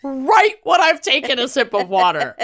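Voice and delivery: talking through laughter; giggling while speaking; laughing. Real, not acted. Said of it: "makes me laugh".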